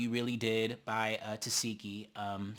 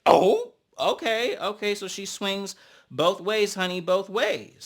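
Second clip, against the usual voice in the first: high, slow, loud mock shock; knowing tease; 5 semitones higher, 5 dB louder than usual. Hearing Marissa's hookup news, teasing and knowing. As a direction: drag out the oh like you caught the tea. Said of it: "And I'm just like".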